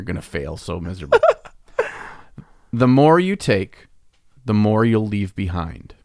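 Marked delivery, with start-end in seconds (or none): 2.7-6.0 riddle read aloud. Shown as a demonstration. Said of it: "This is not food related".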